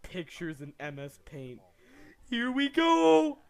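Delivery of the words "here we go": hyped, slow, loud cheer; overacted anime dub. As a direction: ham up the excitement. Hyped reaction to roleplay clip.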